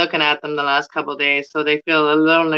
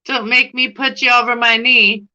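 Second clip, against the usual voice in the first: loud, higher mock-stern telling-off; mock scolding; 5 semitones higher, 3 dB louder than usual. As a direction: scold the plant like a naughty kid.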